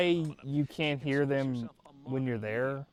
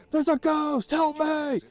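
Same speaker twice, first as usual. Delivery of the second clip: high, loud mock panic; 5 dB louder, slower than usual. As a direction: cry for help, hammed-up. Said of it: "I was like".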